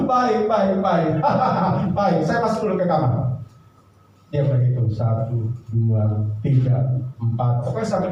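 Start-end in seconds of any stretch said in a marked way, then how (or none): 0.0-3.4 laughing. Acted. Laughing husband.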